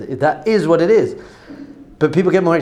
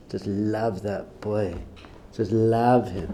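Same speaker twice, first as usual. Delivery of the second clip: slow, low and soft; tender, unhurried fatherly love; tender affection; 7 semitones lower, 9 dB quieter, much slower than usual. Real, not acted. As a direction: say it quietly from the heart. Father sincerely on loving his son.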